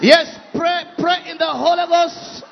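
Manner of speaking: shouted urging; shouting. Real, not acted. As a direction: shout over the praying crowd. Urging congregation to pray.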